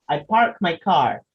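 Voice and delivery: slow "I park my car" with a strong R; American English R stressed; American English slow hard R; rhotic American English. Shown as a demonstration. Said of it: "The R is very prominent".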